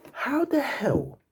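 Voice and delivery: high, slow, breathy 'How the hell'; disbelieving whisper. Real, not acted. Fan replaying the goal, whispering in disbelief.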